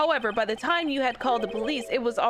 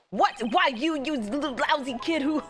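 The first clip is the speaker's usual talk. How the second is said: angry outburst; 2 semitones higher than usual. Acted. Witness outraged at lawyer.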